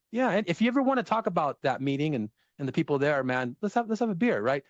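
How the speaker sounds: high, sugary mock-nice small talk; fake-friendly Californian. Mocking a too-nice California friend, high and sugary. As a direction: gush it like a polite Californian who won't be honest. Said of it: "in California, it's kinda like".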